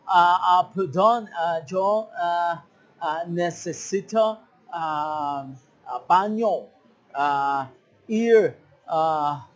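broken Spanish full of hesitant ah's; halting foreign learner. Retold or imitated. Foreigner struggling to ask for the bathroom, halting. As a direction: stumble like a tourist who barely speaks Spanish. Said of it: "te empiezan a decir algo así".

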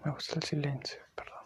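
hushed confessional whisper. Real, not acted. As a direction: breathe the words out, barely voiced. Whispers his thoughts on silence.

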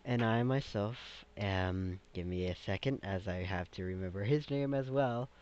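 dragon on the council. Acted. Silver dragon explaining who summoned the party, lightly voiced and stately.

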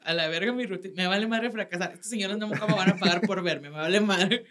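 defiant don't-care. Retold or imitated. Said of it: "yo dije".

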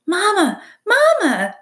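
high, loud chick peep; peeping egg. A narrator's reading. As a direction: call out like a hatchling. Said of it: "said the egg".

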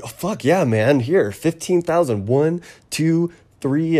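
high, hurried counting out; flustered. Retold or imitated. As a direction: count the cash in a rush. Hurriedly paying out cash.

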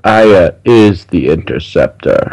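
slow, menacing announcement; slow, weighty and menacing. Acted. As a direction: draw it out like an ominous reveal. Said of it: "You said that very menacingly".

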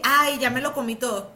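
laughing through the quote. Retold or imitated. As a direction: laugh while quoting the client. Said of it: "me escriben".

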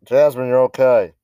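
called out off-mic; calling to the dog aside; turning away from phone. Real, not acted. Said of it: "Sorry about that. That's my dog".

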